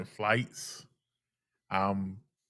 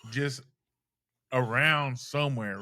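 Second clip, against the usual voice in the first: mom's voice; 3 semitones higher than usual. Retold or imitated. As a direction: play the emotional mom pitched way up. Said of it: "She's like".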